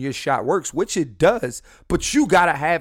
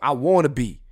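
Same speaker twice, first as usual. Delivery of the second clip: comic stubborn insistence; mock defiance; 3 dB louder than usual. Comic telling women why he's alone, mock-defiant. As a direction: insist on it, loud and drawn.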